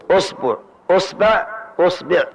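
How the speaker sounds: أصبع with u on the hamza, usbuʕ usbaʕ usbiʕ; أصبع, rounded u start each time; usbuʕ forms with damma. Shown as a demonstration. Teacher runs through the damma variants, usbuʕ, usbaʕ, usbiʕ. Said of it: "ثم نأتي ضم الهمزة".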